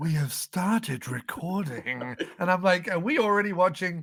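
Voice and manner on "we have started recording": mock-sultry voice, lower, quieter, slower. Mocking the video-call app's recording announcement, in a sultry Jitsi voice. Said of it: "it was sultry in a way that like porn in the seventies".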